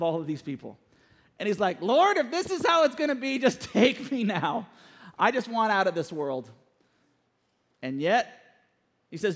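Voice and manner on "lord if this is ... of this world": exasperated. Acted. Moses begging God to take him, exasperated. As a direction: play a mildly hammed-up last-straw plea. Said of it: "Moses finally lost his last nerve".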